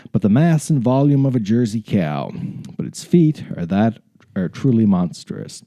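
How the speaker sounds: measured, deliberate read-aloud; dramatic story narration. Acted. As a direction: narrate it like a grand adventurer's memoir. Resumes reading story.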